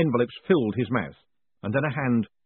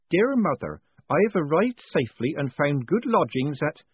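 higher-pitched country lad's letter voice; scritchy young rustic voice; scritchy country boy; 6 semitones higher than usual. A narrator's reading. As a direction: read it out like a simple country boy writing home. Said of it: "a country boy".

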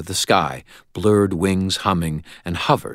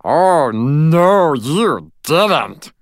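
high, loud outraged squeak; shrill furious; 10 semitones higher, 7 dB louder, much slower than usual. Acted. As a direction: shriek it indignantly. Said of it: "shrilled, furious".

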